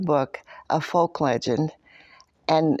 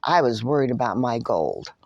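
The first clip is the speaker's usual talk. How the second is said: lower, grudging grumble; grumbled; 4 semitones lower than usual. Acted. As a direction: grumble it to hide that you care. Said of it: "and grumbled".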